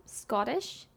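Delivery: Scottish drawn out oddly, slow and soft; said weird. Real, not acted. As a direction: say Scottish slowly, like a botched accent. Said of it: "I said that weird".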